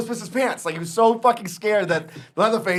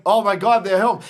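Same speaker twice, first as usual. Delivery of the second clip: louder, faked alarm with a cry in it; dad faking terror about the Three Bears coming home; mock panic; 3 semitones higher, 6 dB louder than usual. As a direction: pretend to be scared to spook the kid. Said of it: "And I'm like".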